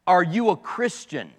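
lightly imitated southern crusade preacher; hint of a southern preacher; Billy Graham's southern drawl. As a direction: put the question with a slight southern drawl. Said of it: "in his southern drawl".

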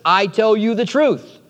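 "I tell you the truth" set apart with stress; emphatic assurance. Retold or imitated. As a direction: press on "I" and land firmly on "truth". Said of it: "Notice his emphasis".

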